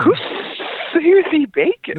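jaw jutted forward; underbite. Pretend. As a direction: speak with an underbite. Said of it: "stick your bottom jaw out".

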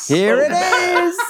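high, slow laughing delivery. Real, not acted. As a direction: laugh the words out. Laughs at the bad roll.

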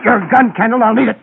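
sharp, loud order; loud command. Acted. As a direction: demand it suddenly and loudly. Sudden demand for the gun.

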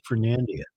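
Fernandina with a flat "an" as in "hand"; defended pronunciation. Shown as a demonstration. Host insists he's pronouncing it correctly, Fernandina with flat A. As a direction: say Fernandina, middle vowel as in "hand". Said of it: "I think I'm pronouncing it correctly".

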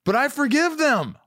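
retold forgiveness. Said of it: "I just said".

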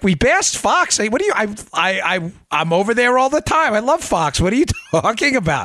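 high, confused disbelief; baffled. Retold or imitated. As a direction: act like you can't fathom it. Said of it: "I'm like".

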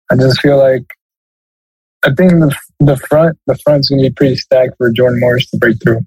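stuffy, nasal from a cold. Real, not acted. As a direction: speak through a blocked nose. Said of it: "bear with me with my nasally voice".

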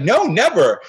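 high, loud no, never; retold emphatic protest; emphatic denial. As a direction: insist it's unthinkable. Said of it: "And he was like".

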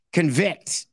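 Convict, con-VICT, rising at the end; stress on vict. Shown as a demonstration. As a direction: punch the second syllable. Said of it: "where you put the syllable and the emphasis".

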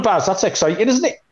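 usual speaking voice

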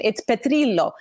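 Petrillo said the Italian way; Italian pronunciation. Shown as a demonstration. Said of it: "truly give it the Italian pron".

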